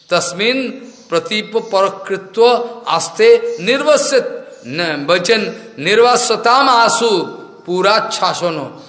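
slow, drawn-out scriptural quotation; measured recital of scripture; Sanskrit verse recitation. Real, not acted. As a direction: recite it syllable by syllable, slowly.

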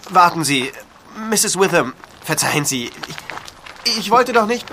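calling after her. Acted. He calls after the leaving woman.

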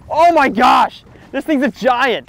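loud, high-pitched amazed outburst; excited shout. Real, not acted. Angler reacting to a giant fish on the line, excited shout. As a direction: shout it, stunned by the catch. Hooking a big fish on camera.

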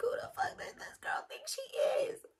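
high, breathy disbelief under the breath; incredulous whisper. Retold or imitated. Narrator recalling her drunk friend's insult, stunned whisper. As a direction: whisper it like you can't believe her nerve.

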